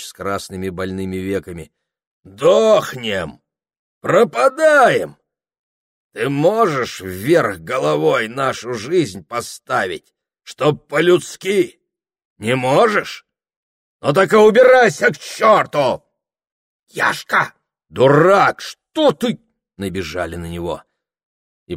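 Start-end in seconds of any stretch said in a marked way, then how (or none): 2.2-3.4 loud, bitter cry of dying; drunken outcry. A narrator's reading. Drunk Yashka bursts out. 4.0-16.0 high, loud, slow bellowing; drunken rage. A narrator's reading. Drunk Yashka rages at lady. 16.9-19.4 high, loud calls to stop; alarmed shouts. A narrator's reading. Neighbours rush to restrain him.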